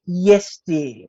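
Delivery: mock-dutiful husband reply; placating. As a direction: humour her with a falling, resigned tone. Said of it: "what he's saying is".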